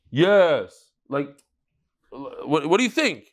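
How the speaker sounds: scoffing mock yes, sung with a tune; sarcastic tune. Guy making fun of the request, sarcastic sing-song. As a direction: tease him with a singsong yes that means no. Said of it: "in a sarcastic way with a niggin".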